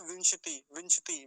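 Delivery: विंशति quickly as "vinsh-ti"; विंशति with श run straight into ति; half श. Shown as a demonstration. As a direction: clip the vowel after श in विंशति. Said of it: "शकार है ये हलंत हो जाता".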